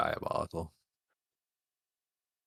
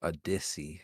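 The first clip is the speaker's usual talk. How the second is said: whisper; 5 dB quieter than usual. Pretend. Repeating the silly slang.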